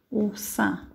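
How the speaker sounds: o sa é átona said slowly, spaced out; slow explanation. Shown as a demonstration. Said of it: "naming the weak syllable". (explicando devagar que o sa é átona)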